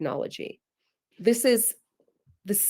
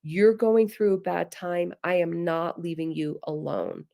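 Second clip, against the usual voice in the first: reassuring. Shown as a demonstration. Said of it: "to know".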